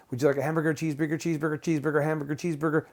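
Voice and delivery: lightly imitated auctioneer, words run together on one level. Staff rattling off burger options to a client, mock auctioneer. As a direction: reel off the choices like an auctioneer. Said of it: "They sounded like an auctioneer".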